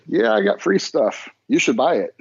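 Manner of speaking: high-pitched mock shill voice; mocking sponsored poster. Mocking a disingenuous sponsored post.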